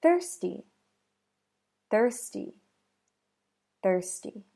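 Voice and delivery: "Thirsty" with an airy unvoiced th; "Thirsty" with the tongue between the teeth; "Thirsty" with a crisp breathy th; unvoiced TH demo. Shown as a demonstration. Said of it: "Next word".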